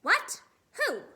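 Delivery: loud, high startled squawk; voice gone funny. A narrator's reading. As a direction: blurt it out, thrown and alarmed. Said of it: "his voice goes all funny".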